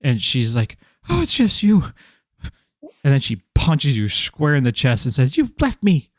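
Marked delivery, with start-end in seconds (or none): 1.1-1.8 high NPC voice. Acted. 5.4-6.1 high hurt accusation. Acted. GM voices angry NPC.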